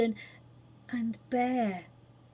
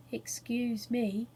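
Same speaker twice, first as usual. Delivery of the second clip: soft, slow and polite; gently breaking in on the others; soft, slow interruption; 5 dB quieter, slower than usual. A narrator's reading. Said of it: "said the Phoenix's soft voice".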